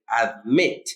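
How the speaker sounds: "admit" said as ad-MIT; stress on last syllable. Shown as a demonstration. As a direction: put the accent on the MIT of "admit". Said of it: "el acento recae en la última sílaba".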